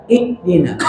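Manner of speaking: "ihdina" with h replaced by an abrupt glottal stop; pressed stop. Shown as a demonstration. Teacher warning against pressing, hard stop. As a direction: cut the air short after i in "ihdina". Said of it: "Jangan ditekan".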